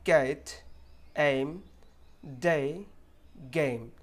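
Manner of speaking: "गेट, एम, डे, गेम" with a full ei glide; clear "ei" sound. Shown as a demonstration. Teacher re-reading the word list, clear ei glide in each. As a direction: separate words, each vowel gliding from e to i. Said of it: "दोबारा से पढ़ते हैं".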